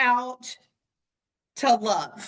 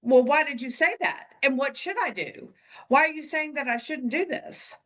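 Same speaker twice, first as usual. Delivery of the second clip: mock confused asker; faster than usual. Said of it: "they would be like".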